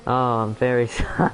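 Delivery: apology broken by a laugh. Real, not acted. Apologising after his voice crack.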